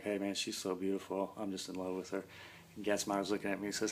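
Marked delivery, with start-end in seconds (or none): 0.0-2.2 soft, dreamy, drugged murmur; drugged euphoria. Retold or imitated. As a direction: drift off lovestruck on painkillers. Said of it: "and then it's euphoria".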